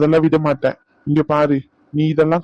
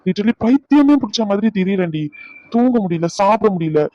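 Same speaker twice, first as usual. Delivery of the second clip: higher-pitched, worked-up plea; desperate pleading; 4 semitones higher than usual. Acted. Man begs angry girlfriend after sleepless days, desperate pleading. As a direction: plead as if at your wits' end.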